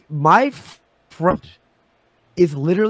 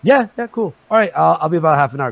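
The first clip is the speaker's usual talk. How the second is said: rushed eager reply; 3 dB louder, faster than usual. Retold or imitated. Geek's reply acted out.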